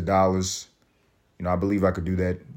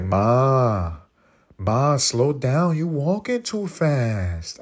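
put-on childhood voice; 3 semitones higher, much slower than usual. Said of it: "I sounded like a little fat spick".

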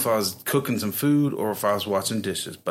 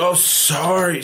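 casual apology; 7 semitones higher, 5 dB louder, slower than usual. Retold or imitated. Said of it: "she's like".

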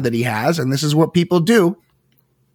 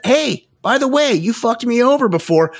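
much higher, taunting impression; spiteful mock jab; 10 semitones higher than usual. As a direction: sneer it up high like a petty rival. Voicing Jordan's spiteful jab.

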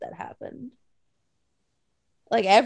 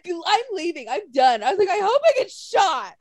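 mildly hammed-up threat to leave, pitched higher; dramatic drunk bickering; 6 semitones higher than usual. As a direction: replay a drunken tantrum lightly. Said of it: "I guess it sounded really dramatic".

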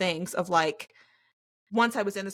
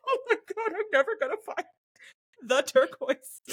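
high-pitched, exaggerated despair; mock despair; 9 semitones higher than usual. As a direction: play up the hopeless exasperation. Acted exasperated search for dress.

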